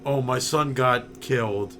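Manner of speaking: deadpan, no feeling at all; emotionless flat voice. Retold or imitated. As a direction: say it like nothing matters. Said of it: "he has no emotion whatsoever".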